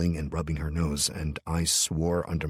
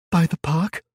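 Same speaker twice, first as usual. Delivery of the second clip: put-on high, tearful child's voice; sad little girl; 13 semitones higher, 7 dB louder than usual. A narrator's reading. Child answering sniffling.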